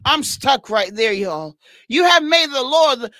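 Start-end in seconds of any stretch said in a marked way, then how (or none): 1.9-3.1 shouted proclamation. Real, not acted. Preacher repeats the key verse.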